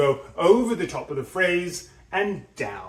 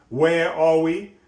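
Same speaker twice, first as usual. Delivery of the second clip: slow, rising question on are; questioning rise; 5 dB louder, slower than usual. Shown as a demonstration. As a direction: ask it as the first idea. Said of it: "substantial pause in between the first idea".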